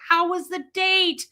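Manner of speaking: high, eager demand for news; excited question. Retold or imitated. Shopper asking the bagger about her date in public, excited. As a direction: ask with embarrassing amounts of energy. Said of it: "I embarrassed her because I was all excited".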